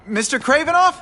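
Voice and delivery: high, tense calling out; nervous high call. Acted. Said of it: "Don't be nervous".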